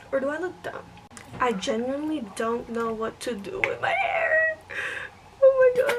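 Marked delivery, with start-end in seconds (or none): 1.4-4.6 a real crack of tears in the voice; despairing, teary; close to crying. Real, not acted. Frustrated over her hair. 5.5-6.0 much higher and louder, a burst of exasperation; real exasperated cry; exasperated outburst. Real, not acted. Exasperated outburst at her hair.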